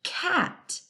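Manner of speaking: cat sung high; bright excited word. Shown as a demonstration. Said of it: "I have spelled the word".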